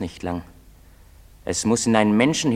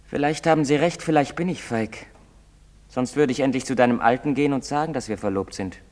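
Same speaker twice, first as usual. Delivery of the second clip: higher, raised voice; agitated self-doubt; 3 semitones higher, 4 dB louder than usual. Acted. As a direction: work yourself up as you doubt yourself. Self-doubt about the others' taunts. (aufgewühlt)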